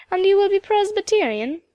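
high Highland Scots question, rising lilt; old Highland woman quizzing a girl; Mrs McIntyre's Highland accent. A narrator's reading. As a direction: ask it keenly in a Highland lilt. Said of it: "full of the delightful Highland accent".

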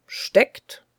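voiceless, irked repeat of the word; irritated echo. Acted. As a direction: throw the word back, annoyed. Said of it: "wiederholte Charles gereizt".

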